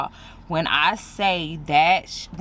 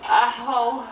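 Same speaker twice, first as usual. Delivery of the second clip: sharp pained "Ow"; in real pain; 6 semitones higher than usual. Real, not acted. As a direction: yelp from a sudden sting. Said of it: "It burns".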